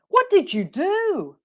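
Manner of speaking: very high "What did you do" with a swooping "do"; exaggerated reaction tune on "do"; model intonation. Shown as a demonstration. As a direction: stretch "do" high, then drop it. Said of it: "listen to my intonation".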